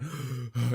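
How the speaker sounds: acted gasp of waking from a nightmare; mock-shocked intake of breath; startled gasp. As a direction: gasp as if jolting awake. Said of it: "And I woke up like".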